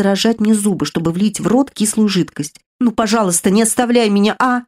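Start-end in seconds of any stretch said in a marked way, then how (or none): 2.8-4.6 tearful pleading. Acted. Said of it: "И снова всхлип".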